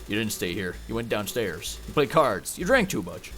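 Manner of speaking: put-on low Western-accent narration. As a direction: recount it as a cowboy narrator, in accent. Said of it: "I can keep doing the accent".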